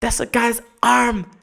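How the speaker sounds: high, startled dog voice; hammed-up high surprised dog; dog snapping to its senses. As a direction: realize in a shock what you're biting. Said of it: "they snap into focus and they go".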